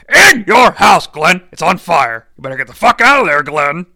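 loud alarm, speeding up; urgent shout. Acted. Warning Glenn his house is on fire, urgent shout. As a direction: yell a frantic warning to escape.

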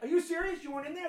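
high, loud incredulous snarl; confronting the kid, a hammed-up gangster challenge; mafia henchman. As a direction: square up like a thirties mob enforcer. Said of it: "turn into a mafia henchman".

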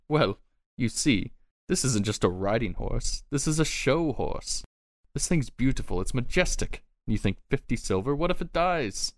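mildly indignant seller, voice lifted; haggling little man. Acted. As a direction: pitch up and plead the horse's worth. Horse owner haggles over his prized horse.

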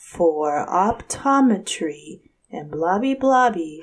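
slow, monotone phone menu voice; monotone recording voice. Retold or imitated. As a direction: drone it like an automated menu. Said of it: "monotone like this".

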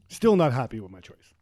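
talking through a mouthful of cheese; words round a bite of cheese; mouth full. Real, not acted. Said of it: "My mouth is full of cheese".

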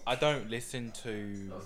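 lightly put-on British accent. Giving friends a verdict on UK rap, mock British accent. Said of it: "take it to the British accent".

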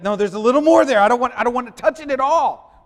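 high, loud, fussy refusal; loud wife refusing. Retold or imitated. Wife insisting her husband finish the whipped cream, loud and high.

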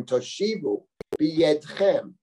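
b'yedchem set apart and drawn out slowly; slow, deliberate weight on b'yedchem; emphasis on b'yedchem. Shown as a demonstration. Teacher pointing out a word in the verse, b'yedchem slowly emphasized. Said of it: "Notice the emphasis on the word b'yedchem".

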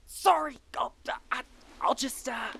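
unvoiced, sheepish apology; embarrassed whisper. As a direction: whisper sorry, caught out. Realizes he's on air.

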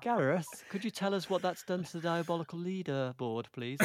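lightly put-on polite pleading request; Oliver Twist take. Shown as a demonstration. Host politely asking Gareth for the leaderboard, light Oliver Twist plea. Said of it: "That was the Oliver Twist take".

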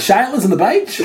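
"Sheilas on the beach" with Irish vowels, beach as "baitch"; Irish accent. Shown as a demonstration. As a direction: say "Sheilas" as "Shyelas" in an Irish lilt. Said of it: "That's my Irish accent".

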